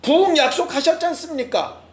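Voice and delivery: a preacher voicing Habakkuk crying out to God; mock crying out. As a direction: raise the pitch and plead like a frustrated prophet. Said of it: "막 외치는 거죠".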